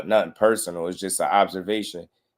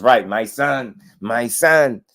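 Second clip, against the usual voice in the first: higher, proud boasting dad, lightly voiced; imitating bragging father; 4 semitones higher, 4 dB louder than usual. Mocking the fighter's father bragging about his son. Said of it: "his father was bragging about how great he is".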